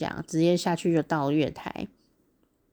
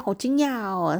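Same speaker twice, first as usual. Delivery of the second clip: 惊讶; 2 semitones higher than usual. Retold or imitated. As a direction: relive a small moment of astonishment. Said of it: "我就觉得好惊讶哦，". (略带惊讶地感叹)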